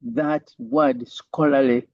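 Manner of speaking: slow, with weight on "scholarly"; stress on scholarly. Shown as a demonstration. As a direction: lean hard on the word "scholarly" and draw it out. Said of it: "And I'm emphasizing".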